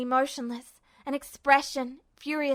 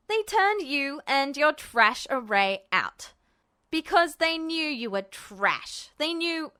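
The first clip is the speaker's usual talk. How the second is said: Ed's cruel jab. Acted. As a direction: drive each word in. Ed presses cruelly.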